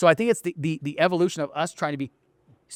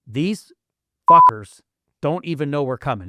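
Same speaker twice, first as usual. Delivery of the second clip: louder, swaggering boast; cocky loud quote; 7 dB louder, slower than usual. Retold or imitated. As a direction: throw it out like a defiant boast. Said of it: "we literally say it every day".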